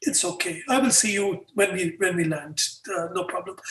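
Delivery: quietly backing down, fading out; a friend's soft giving-up tone; resigned friend. Retold or imitated. Friend resigned after refused upgrade.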